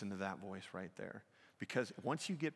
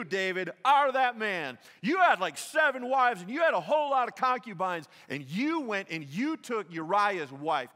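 much louder and higher accusing sermon voice; preaching at full force; 10 semitones higher, 14 dB louder than usual. Acted. Nathan confronting David about Bathsheba, loud and accusing. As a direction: point the finger and thunder it.

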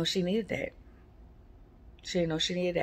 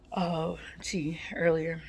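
whispering; slower than usual. Real, not acted. Quiet aside in whisper.

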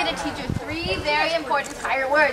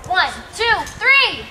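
count-in build; 5 semitones higher, 6 dB louder, much slower than usual. Shown as a demonstration. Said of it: "I'm gonna count to three".

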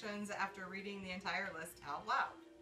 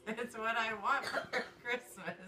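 slow chant through stifled giggles; fighting back laughter while chanting. Real, not acted.

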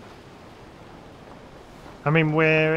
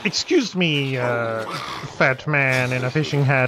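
put-on posh English accent. Player greets a man in a fishing hat, mock posh English accent. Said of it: "put, like, a posh accent on".

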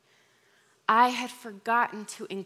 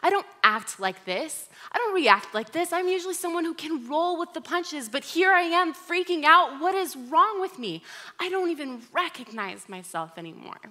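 retold sobbing plea; 5 semitones higher than usual. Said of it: "And I started sobbing".

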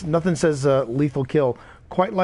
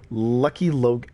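wrong title; slower than usual. Shown as a demonstration. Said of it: "Pip's got me saying it wrong".

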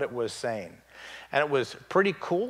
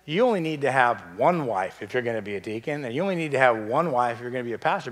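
only lifted with a rise in each clause; stress on only; faster than usual. Shown as a demonstration. Preacher pressing congregation on only, stressed rising. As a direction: hit only in both lines. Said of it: "You need to catch this".

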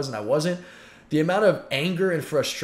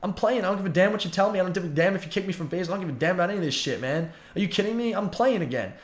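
higher, heated mock rant, retelling his fury; retold fury; 4 semitones higher than usual. To FaZe, who dropped him, a raised defiant rant. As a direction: spit it out like he's lost his mind. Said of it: "I was ballistic".

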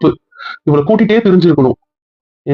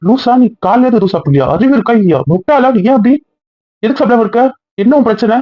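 raised, exasperated scolding of a careless daughter; angry scolding; 5 semitones higher than usual. Acted. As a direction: scold her sharply, voice pitched up high. Mutter schimpft mit hungriger Tochter.

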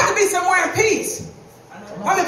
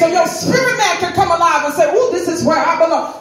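fervent preaching; 3 semitones higher than usual. Real, not acted. Preaches at full force.

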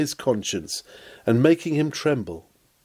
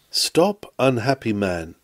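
urgent call; 3 semitones lower than usual. Acted. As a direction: call him back before he leaves. Pleading with Felix again.

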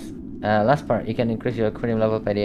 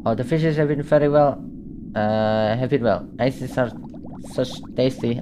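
posh voice. Acted. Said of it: "that guy have a really posh voice".

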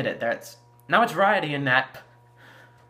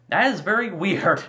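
breaks into a laugh, pitched up; amused laugh; 6 semitones higher, 4 dB louder than usual. Real, not acted. Fan reacting to the Rotom reveal with a laugh. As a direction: giggle at how odd it is.

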